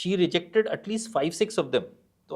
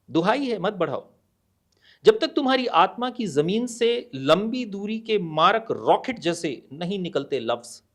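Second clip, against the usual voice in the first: insistent, building poem lines with a hushed refrain; poem recitation; 3 dB louder, faster than usual. Acted. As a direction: declaim the long lines, then let the refrain fall away. (कविता पाठ, ज़ोर देकर, टेक धीमी)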